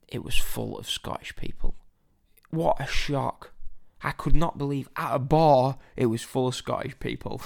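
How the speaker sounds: mock-astonished, with heavy punches of emphasis; mock shock. Telling listeners who filled the bar, in mock shock. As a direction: feign disbelief, hitting key words loudly.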